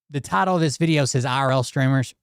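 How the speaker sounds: slightly hoarse, losing voice; hoarse, voice starting to go. Real, not acted. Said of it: "I sound like I'm losing my voice".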